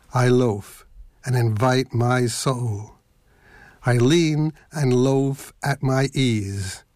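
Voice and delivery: slow, measured poetry reading; poem reading. Acted. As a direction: read it like a poem, unhurried. Reads Whitman poem aloud.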